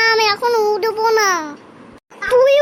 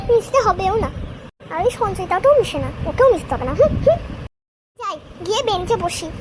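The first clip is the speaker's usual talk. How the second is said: lonely muttering; 2 semitones higher than usual. Acted. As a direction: mumble it lonely, under the breath. Lonely child muttering alone.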